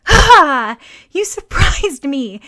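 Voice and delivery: loud, high startled cry; a startled girl shouting at the door; surprised exclamation. A narrator's reading. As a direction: jump back, caught off guard. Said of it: "Mei Lin exclaimed".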